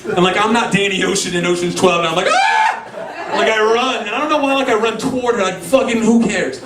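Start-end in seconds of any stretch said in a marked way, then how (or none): 2.3-2.6 short comic scream; imitated yelp of terror; mock frightened yelp. Brother spotting eyes at the window, mock yelp.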